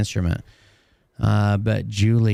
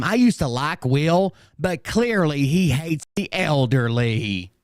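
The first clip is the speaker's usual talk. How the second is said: quoting a commenter; 4 semitones higher, slower than usual. Retold or imitated. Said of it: "one person said one time".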